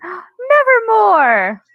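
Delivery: high, loud, drawn-out raven call; spooky mock raven; raven cry. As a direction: croak it like Poe's raven. Player mimics a raven's call.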